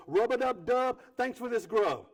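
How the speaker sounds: silly grace. Retold or imitated. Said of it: "says a prayer like".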